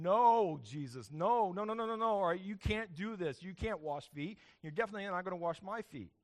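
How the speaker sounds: begging Jesus to stop, half-shouting; alarmed protest. Retold or imitated. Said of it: "Everybody there is going".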